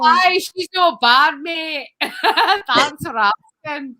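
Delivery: slow, attempted Scottish accent; amateur Scottish accent with a laugh. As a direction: draw it out in a put-on Scottish accent. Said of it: "That one's Scottish".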